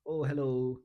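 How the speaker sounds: an unsure man greeting a business partner; unconfident speaker. Shown as a demonstration. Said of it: "He speaks like this".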